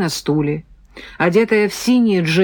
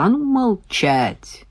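slow, menacing command, pitched up; stern order to shut up; barked order; 5 semitones higher, slower than usual. A narrator's reading. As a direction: bark it with drawn-out weight. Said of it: "рявкнул парень в свитере".

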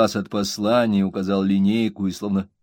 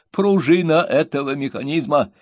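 high, slow self-admiring reading; pompous reading; 8 semitones higher, 3 dB louder than usual. A narrator's reading. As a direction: savour every grand word. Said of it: "выразительностью его чтения".

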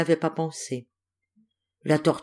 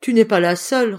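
high, loud sharp comeback; retorting; 5 semitones higher, 6 dB louder than usual. A narrator's reading. Turtle fires back at the complaining antelope, sharp retort. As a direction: snap back at her. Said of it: "riposta la tortue".

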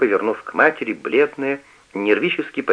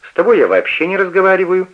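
fast, higher, louder snap; snapping back; 9 semitones higher, 5 dB louder, faster than usual. A narrator's reading. Elder sister snaps at Eva, angry and fast. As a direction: bite the words off. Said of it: "огрызнулась старшая".

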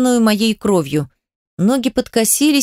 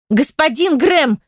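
slow, higher scolding cry; sharp call-out; 5 semitones higher, slower than usual. Acted. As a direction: snap his name out. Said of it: "прикрикнула Адель на мужчину".

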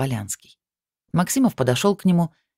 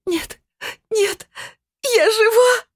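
very high crying wail, growing louder; helpless wail; 4 dB louder, much slower than usual. Acted. Sveta wailing helplessly that she is still alive. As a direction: sob out a helpless denial. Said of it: "бессильно заголосила Света".

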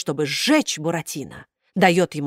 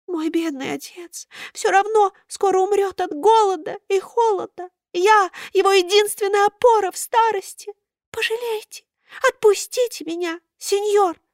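high thin begging voice; begging puppet; 13 semitones higher than usual. A narrator's reading. Buratino begs Karabas to let him go, high pleading. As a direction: beg for mercy in a tiny voice.

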